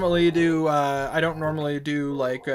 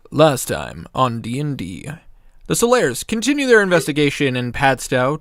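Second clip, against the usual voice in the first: louder storyteller recap voice; dramatic recap narration; 7 dB louder than usual. Acted. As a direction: set the scene like a game master. Reads the session recap.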